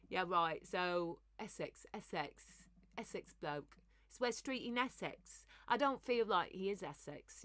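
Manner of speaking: put-on Essex bloke accent. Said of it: "my Essex bloke voice is good".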